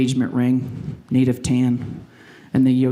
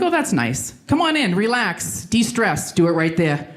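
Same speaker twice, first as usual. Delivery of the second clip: mock soothing; 2 semitones higher than usual. Mocks the number-ten floor system.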